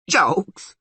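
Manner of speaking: high, loud goat-creature roar. A narrator's reading. Goat horn overhears talk of jokes, roaring. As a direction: roar it in outrage. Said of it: "roared the goat horn loudly".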